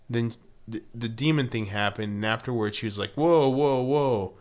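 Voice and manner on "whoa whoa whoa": mock alarmed Jenny. Imitating Jenny recoiling.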